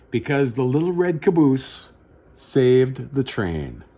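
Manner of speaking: story narration. A narrator's reading. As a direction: tell it like a bedtime picture book. Reads picture book aloud.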